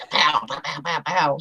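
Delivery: soft imitated raindrop pows; pow, pow, pow like machine guns; pow pow imitation. Host imitating rain on the metal roof, soft pows. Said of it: "it's like".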